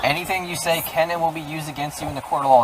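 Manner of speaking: reading Miranda rights. Real, not acted. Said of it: "I'm gonna read you your Miranda rights".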